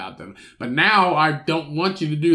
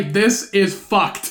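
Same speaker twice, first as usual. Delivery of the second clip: deadpan mock ending; 5 semitones higher, 5 dB louder, much slower than usual. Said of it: "Your last word shouldn't say".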